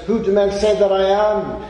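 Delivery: loud, high challenge to the disciples; searching question. Acted. Jesus asking the disciples, loud and searching. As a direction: ring it out as a question.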